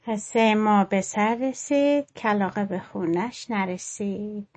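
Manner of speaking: slow, rounding off the tale; story closing. A narrator's reading. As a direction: wind the story down gently.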